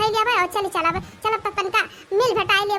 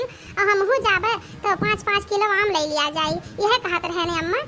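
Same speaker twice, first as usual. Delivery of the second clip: bride's reply. Acted. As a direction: answer the old woman sweetly as the bride. Bride answers mother-in-law.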